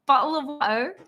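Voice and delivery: quick stab at a British accent; amused, amateur British imitation; attempted British accent. Shown as a demonstration. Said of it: "Okay, British. The only thing I can try".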